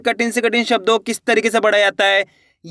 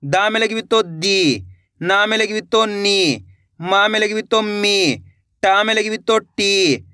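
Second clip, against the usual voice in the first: slow call-and-repeat drill. Shown as a demonstration. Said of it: "मेरे साथ साथ उच्चारण करो".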